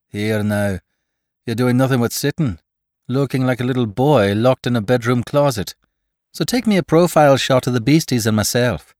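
lightly voiced brisk Irish banter; a hint of a bossy Irishman; cajoling Irishman.

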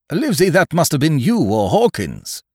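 high, loud accusation; squire's cry. A narrator's reading. Squire blaming the doctor or Hawkins, crying out. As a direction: burst out accusingly. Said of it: "cried the squire".

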